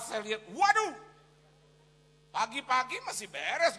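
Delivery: high, loud storytelling; full-force preaching. Real, not acted. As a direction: shout the tale to the congregation.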